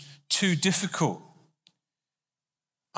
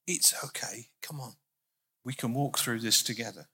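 soft whispered reassurance; hushed comfort; 4 semitones lower, 6 dB quieter than usual. Pretend. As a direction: whisper it like a comforting hand on the shoulder. God voiced comforting the struggling.

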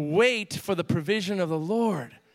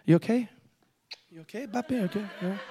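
mock concern; 6 dB quieter, faster than usual. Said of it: "Jesus would be like".

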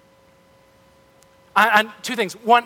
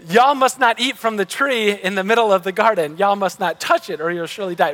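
lightly put-on Southern accent; playful, mild Southern accent. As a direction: give the serpent a touch of the South. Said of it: "A serpent does not have a Southern accent".

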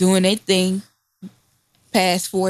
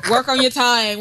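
laughing; 3 semitones higher than usual. Real, not acted. Joking retort, laughing.

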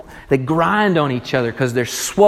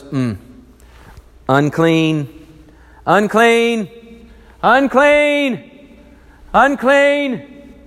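rising from a murmur to a loud, high ringing cry; priest's pronouncement building; 6 semitones higher, 3 dB louder, much slower than usual. Acted. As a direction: declare it louder each time. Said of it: "the priest looks them over and goes".

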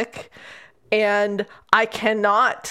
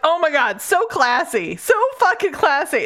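sarcastic scorn; 5 semitones higher than usual. Retold or imitated. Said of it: "And I'm like".

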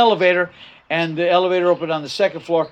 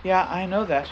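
whiny reply; 5 dB quieter than usual. Pretend. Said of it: "whiners, have a melody".

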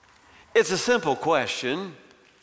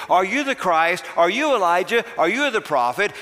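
pressing questions; 4 semitones higher, 4 dB louder than usual. Acted. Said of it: "John is getting agitated".

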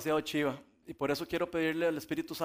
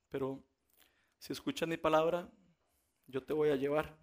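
softer, tender reassurance; Holy Spirit gently reassures a straying listener, softer; gentle Holy Spirit voice; 5 dB quieter than usual. Acted. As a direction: speak as a patient guide forgiving a lost soul. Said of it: "invitar hoy al Espíritu Santo para que hoy te diga".

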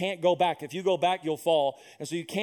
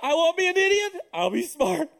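half-crying prayer; 9 semitones higher, 3 dB louder than usual. Retold or imitated. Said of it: "literally halfway crying".

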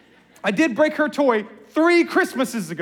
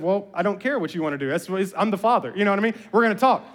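stern father; 2 semitones lower, faster than usual. Retold or imitated. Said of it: "I didn't say it that mean, but I did".

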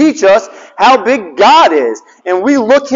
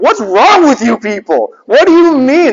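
exasperated rebuke; 5 semitones higher than usual. Retold or imitated. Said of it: "that's a direct quote".

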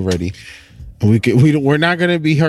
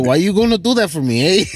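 mock Mexican accent; 6 semitones higher than usual. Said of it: "you did a Mexican accent".

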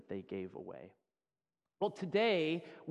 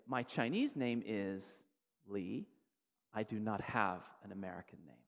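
a lightly voiced sad student admitting it; softer, lower mock sadness; 6 semitones lower, 5 dB quieter than usual.

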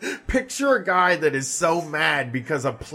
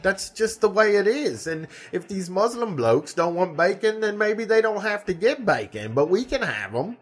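higher mock Aussie rant; Australian accent; 6 semitones higher than usual. Imitating Aussie poster ranting about bacon, Australian accent. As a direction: rant like an offended Aussie bloke. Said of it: "Did I do a good Australian accent first?".

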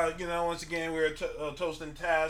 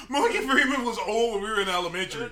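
laughing; 2 semitones higher, faster than usual. Real, not acted. Laughing through the line.

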